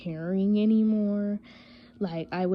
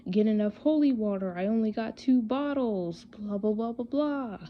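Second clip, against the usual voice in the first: lightly raised pitch, mocking complainers; mock complaining chat; 4 semitones higher than usual. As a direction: imitate a crowd moaning, trailing into blah-blah. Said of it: "everybody in the chat starts saying".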